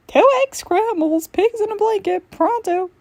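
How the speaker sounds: waitress yelling the order a second time, hurrying the cook; impatient order call. Acted. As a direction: holler the order again, fed up. Repeated order, louder, impatient.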